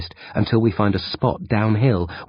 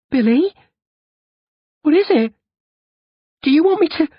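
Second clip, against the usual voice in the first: loud frightened calling; panicked calling; 6 dB louder, faster than usual. Acted. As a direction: call out to him, scared. Panicked Grubs.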